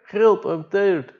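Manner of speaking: high, slow, drawn-out whimper; whiny tired plea. Retold or imitated. A tired diver whining to the boat crew, high and slow. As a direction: stretch it out like an exhausted man pleading. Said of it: "we just say it".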